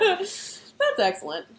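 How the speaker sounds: slow, laughing through the words; amused, laughing slowly. Real, not acted. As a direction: chuckle it out slowly. Laughing at snow globe globe.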